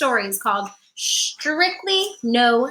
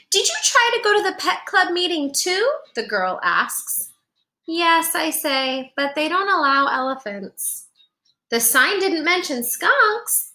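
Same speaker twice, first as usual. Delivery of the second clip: put-on bright storybook narration for kids; gentle picture-book reading voice; reading to children; 3 semitones higher than usual. A narrator's reading. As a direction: read it like storytime on the rug. Reads picture book aloud.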